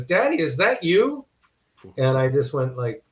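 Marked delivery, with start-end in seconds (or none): 0.0-1.2 higher, lightly voiced little kid; toddler's question. Little son asking his dad during a bedtime comic, lightly childlike. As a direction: ask it like a small child in wonder. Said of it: "he goes".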